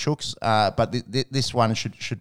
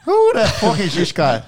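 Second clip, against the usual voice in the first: loud high announcer shout; dramatic segment intro; 7 semitones higher, 6 dB louder than usual. Pretend. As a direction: boom it out like a show title. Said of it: "fucking sound record that".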